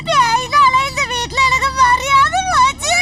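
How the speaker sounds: crying. Acted. Husband complaining tearfully.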